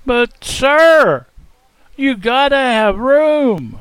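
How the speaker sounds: high, loud, slow begging; desperate plea. Acted. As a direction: beg the innkeeper urgently. Young man begs the innkeeper.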